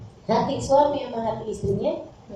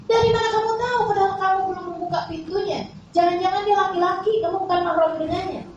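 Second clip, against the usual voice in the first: questioning doubt; 5 semitones higher than usual. Acted. Husband questions Fatimah in story.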